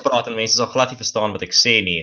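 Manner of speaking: quick, fluent Afrikaans with rolled R's. Shown as a demonstration. South African guest shows the host how he sounds, in Afrikaans. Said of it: "if I speak Afrikaans, I, f-, I sound like this foreign".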